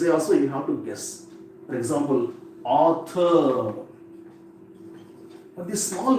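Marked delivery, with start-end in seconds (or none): 2.6-3.7 "author" with force on the first syllable; stress at beginning. Shown as a demonstration. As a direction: say AU-thor, punching the start of "author". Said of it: "simply guess in the beginning only".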